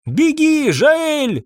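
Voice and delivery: very high panicked scream; desperate shouted warning. A narrator's reading. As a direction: yell for him to run. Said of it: "кричала Мария".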